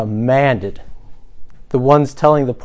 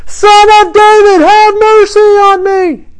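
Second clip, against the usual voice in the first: much louder, much higher, slow desperate shout; crying out all the more; 10 dB louder, slower than usual. Retold or imitated. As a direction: shout it over the whole crowd. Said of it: "he cried out all the more".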